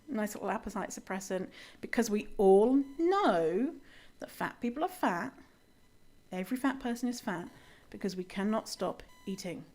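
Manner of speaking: mock-earnest, understated sarcasm. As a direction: say it deadpan as if agreeing. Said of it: "that was all sarcasm".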